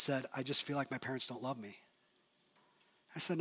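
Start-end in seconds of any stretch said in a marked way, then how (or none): 0.3-1.8 low, soft retelling of a tearful confession; subdued hurt teen. Retold or imitated. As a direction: quietly voice a hurting boy, understated. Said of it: "he just started crying".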